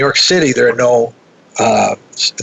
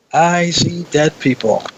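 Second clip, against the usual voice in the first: slow, higher-pitched film quote; little boy's movie line; 5 semitones higher, slower than usual. Retold or imitated. Quoting the little boy in The Sixth Sense, slow and higher. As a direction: lightly imitate a haunted child, drawn out. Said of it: "he looks up and he says".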